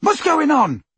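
high, loud call; shout. A narrator's reading. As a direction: shout his name from afar. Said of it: "shouted Ron".

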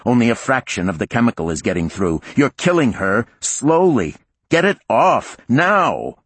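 rising into a loud high shout; urgent shouting. Acted. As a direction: build to a furious command. Warden orders crew in crisis.

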